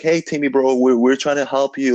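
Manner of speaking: hammed-up cop brushing it off with a laugh in the voice; a touch of sneering officer talking down to the man; mocking cop voice. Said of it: "and they're laughing".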